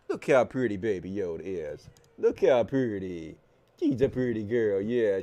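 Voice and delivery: low, soft cooing; pet talk. Real, not acted. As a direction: coo tenderly at your pet.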